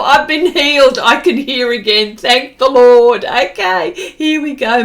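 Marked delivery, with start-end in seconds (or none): 0.0-3.3 mock joyful relief. Jokes sound now works.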